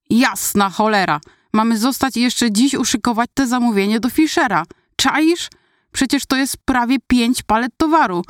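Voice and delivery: exasperated outburst. Acted. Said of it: "Wykrzyknął".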